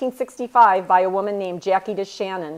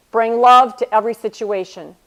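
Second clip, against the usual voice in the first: "Bring love to every situation" said out loud and firm, "love" punched; louder restatement; 5 dB louder than usual. Shown as a demonstration. Repeating the mentor's motto to the audience, louder and firm. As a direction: proclaim the motto to the room. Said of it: "The most meaningful thing that she has ever taught me".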